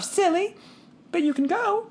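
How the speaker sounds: put-on high girlish voice, playful; teasing sister. A narrator's reading. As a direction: tease the little brother. Daughter teasing brother.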